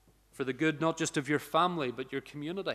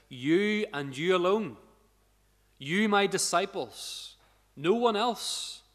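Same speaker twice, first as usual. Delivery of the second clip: slow, rising, strongly stressed You; Jesus stressing you alone, each word slow and high; emphatic quote; 4 semitones higher, slower than usual. Acted. Preacher voicing Jesus, stressing "you" slowly and emphatically. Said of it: "It's very strongly put here".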